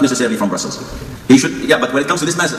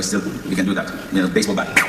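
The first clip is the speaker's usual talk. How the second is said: joking through laughter; 5 semitones lower, 4 dB quieter than usual. Real, not acted. Joking about hitting children.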